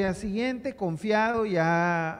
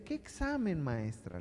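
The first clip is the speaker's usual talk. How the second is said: a mild, retold jolt of surprise on qué; surprised; 5 dB quieter than usual. Mother surprised at the teacher's call about the exam. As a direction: ask qué examen as if caught off guard.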